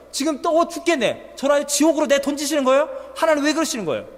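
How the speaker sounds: petulant Jonah. Acted. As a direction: whine like a spoiled prophet to God. Jonah ranting at God.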